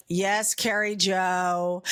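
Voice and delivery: slow, drawn-out imitation of an irritated father; mildly annoyed dad, stretching out the name. Dad answering his child by her double name, mildly annoyed. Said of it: "when my dad was annoyed with me".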